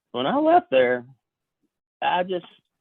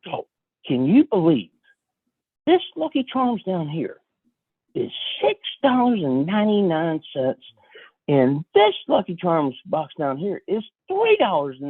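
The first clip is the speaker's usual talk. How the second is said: amazed retelling; 4 semitones higher than usual. Retold or imitated. Friend spotting bargains in the cereal aisle, mock amazement. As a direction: imitate a friend's high-pitched amazement.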